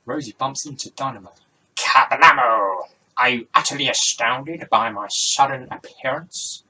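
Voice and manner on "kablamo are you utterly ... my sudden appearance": big, booming stage-magician outburst; showy magician's entrance. Acted. Magician surprises Rosie with his sudden appearance, showy and loud.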